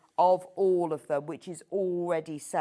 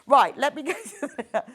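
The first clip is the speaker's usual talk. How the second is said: louder restart breaking into giggles; laughing; 4 semitones higher, 7 dB louder than usual. Real, not acted. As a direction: try to carry on through laughter. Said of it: "I'm laughing now".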